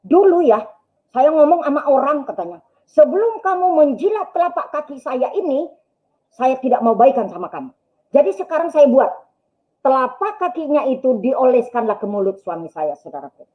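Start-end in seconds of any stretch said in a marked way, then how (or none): 0.0-2.3 higher-pitched scolding mother-in-law; retold nagging in a raised pitch; imitated nagging rant. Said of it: "dia ngoceh begini". 2.9-9.1 mother-in-law's ultimatum, pitched up; retold rant, higher and insistent; imitated nagging rant. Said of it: "dia ngoceh begini".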